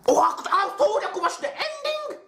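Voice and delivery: high, laughing through the words. Real, not acted. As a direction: laugh it out, amused. Laughing through the sneezing fit.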